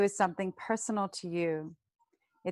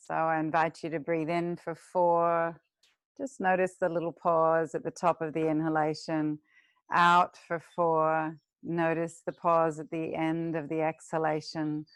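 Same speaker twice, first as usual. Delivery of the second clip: guided meditation. Acted. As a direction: lead the class gently into the breath. Counts equal ratio breath.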